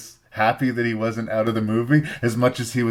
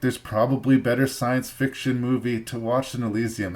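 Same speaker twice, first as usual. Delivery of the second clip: normal talking voice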